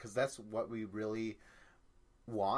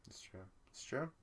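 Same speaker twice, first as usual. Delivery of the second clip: whisper; 8 dB quieter than usual. Real, not acted. Agreeing under breath.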